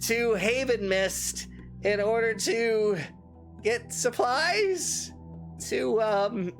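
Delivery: a lightly voiced sly merchant. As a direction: slip him the rumour like a shopkeeper. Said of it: "normal merchant voice".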